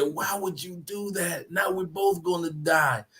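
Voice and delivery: slow, softened dying question; last breath. Acted. Drowning frog asks the scorpion why, dying softly. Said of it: "The frog in his last breath said".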